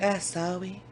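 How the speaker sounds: lightly imitated little kid, softly saying sorry; soft baby-talk apology with a rounded r; toddler apology. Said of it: "she'll hug you and be like".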